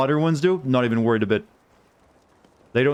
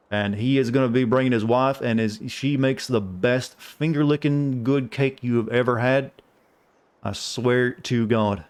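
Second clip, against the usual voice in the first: fake southern accent. Shown as a demonstration. Streamer doing an accent on request for chat, fake southern accent. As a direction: put on a folksy, stereotypical southern accent. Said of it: "give you a southern accent, it's gonna be fake".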